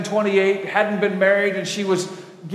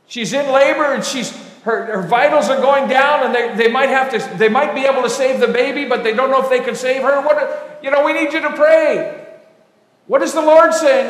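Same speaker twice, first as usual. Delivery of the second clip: retold panicky phone call, voice raised; higher, louder, urgent imitation of worried callers; frantic; 4 semitones higher, 4 dB louder than usual. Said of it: "they're frantic".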